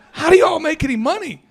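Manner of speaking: laughing disbelief. Real, not acted. Laughing at the absurd business.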